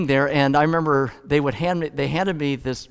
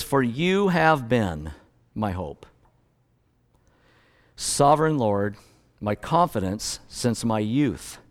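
scripture reading. Acted. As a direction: read each line as a solemn prayer. Reads psalm aloud.

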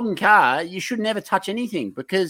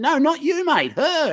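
retold raised voice; 11 semitones higher, slower than usual. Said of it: "I said".

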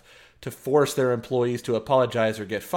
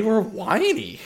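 laughing while talking; 8 semitones higher, slower than usual. Real, not acted. Laughing at own phrasing.

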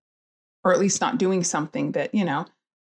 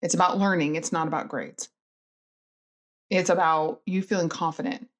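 mom warrior reassurance; faster than usual. Retold or imitated. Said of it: "mom warrior".

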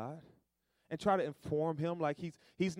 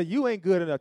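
telling off the devil; 10 dB louder than usual. Pretend. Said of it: "Tell him, say".

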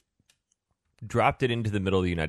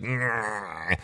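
put-on toddler giraffe noise; 6 dB quieter than usual. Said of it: "a giraffe is like".

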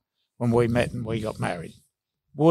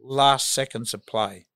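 a bit raspy from a head cold; hoarse with a cold. Real, not acted. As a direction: speak through a cold, slightly hoarse. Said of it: "Excuse my voice, I've got a bit of a cold".

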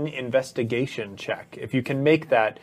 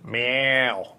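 cat meow; 2 semitones lower than usual. Pretend. GM voicing the Displacer Beast's cat noise, a lazy meow. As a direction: purr it out like a big cat. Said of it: "do you have anything".

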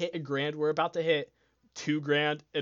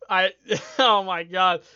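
laughing; 5 semitones higher, 12 dB louder than usual. Real, not acted. Laughing at friend's support.

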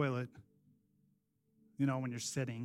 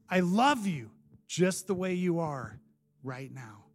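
tender reassurance; 4 semitones lower than usual. Retold or imitated. Voices Jesus tenderly reassuring him.

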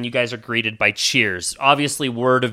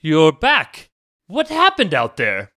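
baron's voice; 3 semitones higher, 4 dB louder, slower than usual. Acted. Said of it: "and he's like".

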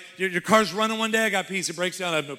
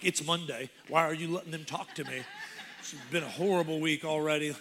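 grumpy dad; 3 semitones lower than usual. Retold or imitated. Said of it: "I could walk in like".

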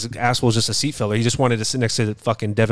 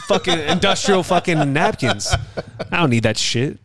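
laughing while ranting; 5 semitones higher than usual. Real, not acted. Laughing rant about napkins.

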